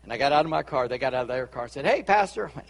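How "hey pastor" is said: higher-pitched, friendly hail; called-out greeting. Retold or imitated. Churchgoer greets the pastor in a parking lot, calling out. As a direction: call out to the pastor across a lot.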